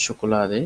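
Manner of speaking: "শোকোলাদে" starting with a hushing sh; palatal sh. Shown as a demonstration. Teacher giving an example of the sound, "শোকোলাদে" with initial sh. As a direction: say "শোকোলাদে" as sho-ko-la-de. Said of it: "তালব্য স এর মতো".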